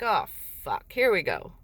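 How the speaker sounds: low, sinking resignation; resigned dread. Retold or imitated. Mother hearing child services are coming, resigned. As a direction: let it drop, bracing for trouble.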